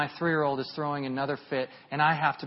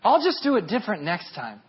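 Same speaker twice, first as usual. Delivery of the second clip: mock excuse; 2 semitones higher, 4 dB louder than usual. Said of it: "What we do?".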